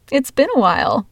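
forced friendly small talk; fake-nice and breezy; feigned friendly. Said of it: "in my feigned friendly voice".

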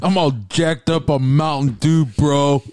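high, loud amped bro voice; hyped up. Acted. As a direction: sound jacked on soda.

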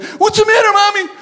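lightly voiced worried kid; high little-kid question; a hint of a frightened child; child's voice. Kids voiced in story.

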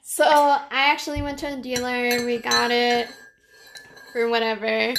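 while sipping a drink. Real, not acted. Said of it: "Sorry, I'm drinking tea".

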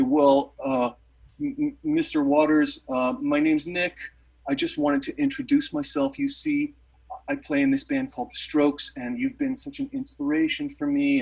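retold humble stammer, tripping over the opening; nervous, ingratiating. Introducing himself to his rock idol, nervous and humble. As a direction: act out a mildly flustered fan introduction. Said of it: "I get really weird all of a sudden 'cause I'm nervous".

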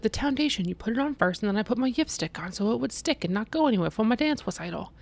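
put-on mild child voice; lightly voiced child. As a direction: play the small kid patiently explaining. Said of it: "And she was like".

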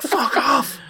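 very high squeaky shouting at the sky; imitating a high guy shouting at the sky; mock crackhead yell. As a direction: yell at the clouds like a madman. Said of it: "shouting at the sky".

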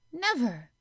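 high, loud burst of disbelief; startled exclamation. A narrator's reading. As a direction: blurt it out, shocked, in broad Yorkshire. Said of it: "she exclaimed".

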